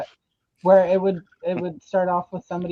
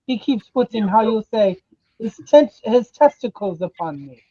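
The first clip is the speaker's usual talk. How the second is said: fake French accent; 3 semitones higher, 5 dB louder than usual. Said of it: "has got the fake French accent".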